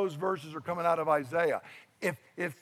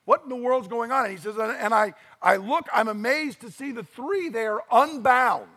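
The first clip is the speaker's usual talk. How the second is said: higher, rising amazement; astonished king; 4 semitones higher than usual. Acted. Preacher voicing Nebuchadnezzar staring into the furnace, higher and amazed. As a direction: sound like a king who can't believe his eyes. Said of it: "he starts saying".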